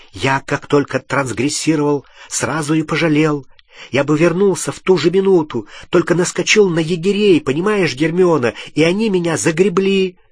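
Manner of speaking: heated plea, climbing in pitch; urgent explaining. Acted. Ron seizing his chance to explain to Hermione, urgent pleading. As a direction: press on before she interrupts. Рон торопится объясниться с Гермионой.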